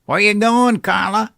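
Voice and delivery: gruff man calling out. Acted. Man calls to Carla in story.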